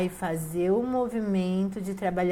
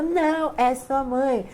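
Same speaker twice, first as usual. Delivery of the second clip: higher and louder, laughing as she insists; repeating the tea's answer, louder and excited; excited insistence; 7 semitones higher, 7 dB louder, slower than usual. Retold or imitated. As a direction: push it back louder and higher.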